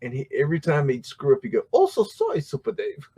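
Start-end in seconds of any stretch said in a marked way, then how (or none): 1.7-3.1 sidekick's catchphrase in a mock Asian accent, much higher; squeaky high mock Asian-accented apology; imitated Asian sidekick accent. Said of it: "he had an Asian sidekick".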